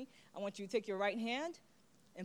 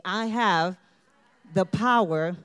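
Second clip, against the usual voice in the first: louder, slow, emphatic affirmation; affirmation again; 8 dB louder, slower than usual. Shown as a demonstration. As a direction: lead the room in the vow. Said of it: "Say it with me".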